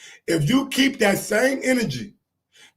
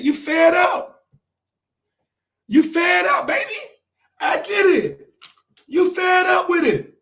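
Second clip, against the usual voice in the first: higher, pleading reassurance; raised sympathy; 6 semitones higher than usual. Real, not acted. Vlogger telling Bud he understands, raised pleading voice. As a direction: pitch up, telling him you understand.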